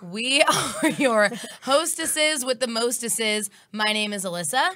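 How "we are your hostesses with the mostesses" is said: drawn out, showy host line; playful slow intro. Real, not acted. Host ham-announcing the duo to listeners, playful and slow. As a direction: sell it like a cheesy tagline.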